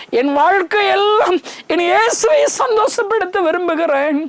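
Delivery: high, choked, crying voice; tearful declaration. Real, not acted. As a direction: weep through the vow. Crying voice heard. (அழுகுரலில் உருக்கமான அறிக்கை)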